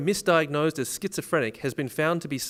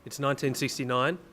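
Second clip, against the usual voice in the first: dramatic scene setting. Acted.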